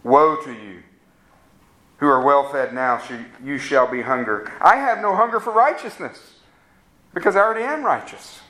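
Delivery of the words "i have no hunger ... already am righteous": lightly voiced smug boast, pitched higher and quicker at the end; a touch of a proud self-righteous man. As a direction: brag as if you owe nothing to God. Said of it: "That's the cry of the self-righteous man".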